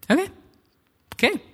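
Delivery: small, hesitant okays with long gaps; uneasy, halting imitation of a listener; awkward acknowledgement. Passenger answers talk about God, awkwardly. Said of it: "And it was really awkward".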